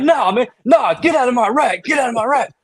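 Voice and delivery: high laughing mock plea; laughing whine. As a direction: squeal it out through laughter. Imitating guy laughing and protesting.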